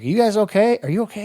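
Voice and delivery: loud, high urgent question; urgent call. Retold or imitated. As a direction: shout it over the gunfire. Soldiers checking on wounded man.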